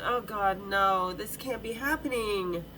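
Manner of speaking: low, slow "Oh, God, no" in dismay; dismayed groan. Shown as a demonstration. Showing the crowd the real reaction, low dismayed groan. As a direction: sink into disbelief, dragging the words. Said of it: "kind of way".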